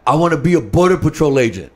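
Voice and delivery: fired up. Retold or imitated. Son telling his dad his chosen job, fired up. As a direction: proudly announce it as an eager son. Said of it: "'cause he was all fired up".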